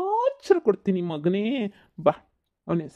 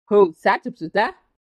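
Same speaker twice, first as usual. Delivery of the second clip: loud, very slow mock Chinese gibberish; 6 dB louder, much slower than usual. Uncle mocks the Chinese boy's language, loud and slow. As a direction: ham up fake Chinese sounds.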